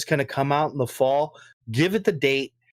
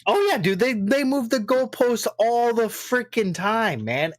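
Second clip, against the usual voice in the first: heated agreement; 6 semitones higher than usual. Real, not acted. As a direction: stretch out the frustration. Agreeing heatedly about goalposts.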